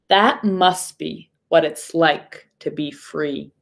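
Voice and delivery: steady storybook reading voice; story narration. Acted. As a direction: read it to the class, gently paced. Reads the picture book aloud.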